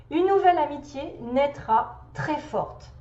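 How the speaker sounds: emphatic recital with pauses between phrases; measured, emphatic read-aloud; reading a message aloud. Acted. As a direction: deliver each phrase as a pronouncement. Reads out the message.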